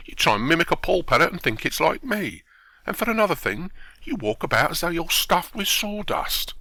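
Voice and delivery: acted indignant comeback; indignant scolding. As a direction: tell him off with rising indignation. Narrator acts watchman scolding the actor.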